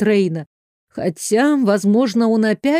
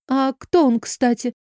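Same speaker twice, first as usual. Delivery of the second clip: timid; 4 semitones higher than usual. A narrator's reading. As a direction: dare to ask, shyly. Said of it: "осмелилась я на робкий вопрос". (робко, с опаской)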